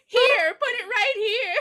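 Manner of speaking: high, loud, slow, through laughter; laughing mock invitation. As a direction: offer the mouth as a target, cracking up.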